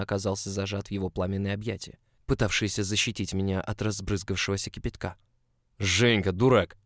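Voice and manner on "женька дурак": loud, emphatic outburst; alarmed scolding cry. A narrator's reading. Boss grabbing him from spilled boiling water, alarmed shout. Alarmed embrace after the kettle falls.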